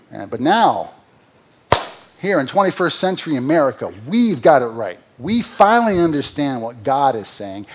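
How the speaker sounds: dry, mocking sermon sarcasm; sarcastic. Real, not acted. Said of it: "I'm getting a little sarcastic here".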